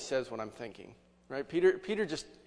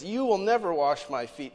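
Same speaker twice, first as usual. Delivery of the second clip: Peter refusing Jesus, a bit louder and firm; firm refusal; 5 dB louder than usual. Acted. Peter refuses Jesus washing his feet, firm and louder. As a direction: put your foot down on "never". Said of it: "The Greek is so emphatic".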